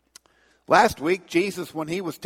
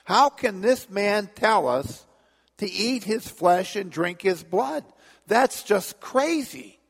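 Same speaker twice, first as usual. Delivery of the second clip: grumbling; 6 semitones higher than usual. Acted. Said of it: "grumbled sharply among themselves".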